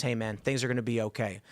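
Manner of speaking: low, soft acted reassurance; smiling reassurance. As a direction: reassure gently, as a cheerful driver would. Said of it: "he's got a smile on his face".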